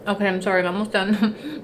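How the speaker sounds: chewing while talking; talking through a mouthful; mouth full. Real, not acted. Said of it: "didn't wanna hear me chew".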